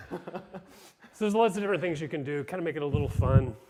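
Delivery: talking out of breath; winded, catching your breath between words. Real, not acted. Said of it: "I am a little out of breath".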